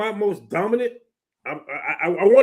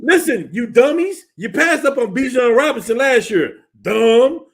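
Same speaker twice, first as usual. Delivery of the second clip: louder, higher fed-up scolding; emotional rant; 6 semitones higher, 5 dB louder, slower than usual. Real, not acted. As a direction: scold them like a fed-up fan. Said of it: "I'm getting emotional like I'm a Bears fan".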